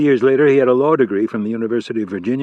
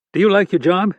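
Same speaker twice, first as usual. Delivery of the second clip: higher, louder, commanding FBI chief; stern boss voice; 8 semitones higher, 4 dB louder than usual. Acted. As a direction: bark it like an irate boss. Hargrave voice again.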